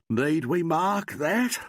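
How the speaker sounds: slow, yawning words. A narrator's reading. Weary inspector asking Alan, yawning. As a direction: stretch it through a big yawn. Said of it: "yawning horribly".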